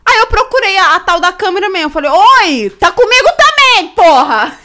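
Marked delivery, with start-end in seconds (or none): 2.1-4.5 loud, high retold outburst; indignant retort. Retold outburst at another woman. (exclamação indignada, alta e aguda)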